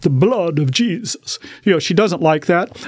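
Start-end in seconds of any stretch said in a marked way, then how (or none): 0.0-1.4 Transylvanian vampire-style accent. Speaker shows an accent used reading the Bible to her, Transylvanian accent. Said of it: "she does not like the Transylvanian accent".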